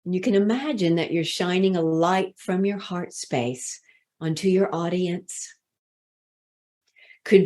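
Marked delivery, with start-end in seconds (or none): 0.0-5.5 soft, lower, settled guiding voice; guided visualization. Shown as a demonstration. Coach guides listeners to their heart space, softly guided visualization. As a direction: ease them gently into the imagery.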